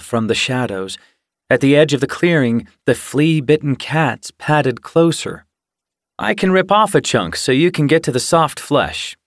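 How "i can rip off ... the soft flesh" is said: higher, cheery offer; cheerful. A narrator's reading. Jake offers Jay help with the pigeon, cheerful. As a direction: offer help brightly and eagerly. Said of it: "Jake mewed cheerfully".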